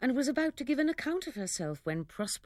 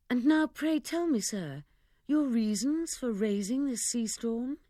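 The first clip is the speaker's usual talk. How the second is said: put-on much higher, louder girlish asking; eager question; 5 semitones higher, 3 dB louder than usual. Miranda eagerly asking her father why he raised the storm. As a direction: press father eagerly for reasons.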